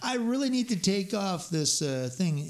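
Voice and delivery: high, drawn-out begging to the boss; pleading to boss. Retold or imitated. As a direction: stretch it out, sheepish and pleading. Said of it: "I go".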